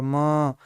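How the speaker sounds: "म" held long on its vowel; drawn-out letter sound. Shown as a demonstration. Teacher demonstrating the vowel in म, "म" drawn out. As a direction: stretch out "म" to show the vowel. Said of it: "आ का उच्चारण हो रहा".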